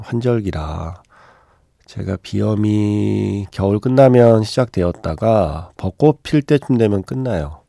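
stuffy nose from rhinitis; blocked-nose voice, slowed; nasal voice. Real, not acted. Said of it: "제가 이렇게 코맹맹이 소리로".

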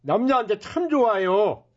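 brash hawker's sales pitch; snake oil seller. Acted. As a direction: talk up the miracle tonic.

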